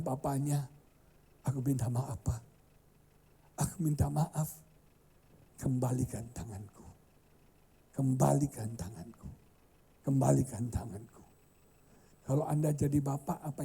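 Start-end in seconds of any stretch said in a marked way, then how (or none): 0.0-11.1 put-on crying child. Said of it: "Terus anak itu nangis. Dia bilang".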